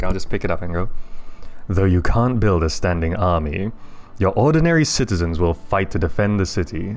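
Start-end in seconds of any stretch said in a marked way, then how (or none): 1.7-6.9 right on the mic, intimate narrator read; close-miked narration. Shown as a demonstration. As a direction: hold the mic to your mouth and narrate. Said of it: "get really close to the mic".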